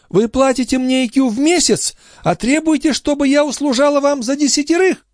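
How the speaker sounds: put-on high outraged cry of an old concierge; indignant old woman. A narrator's reading. The concierge outraged at Marat's accusation, high indignant cry.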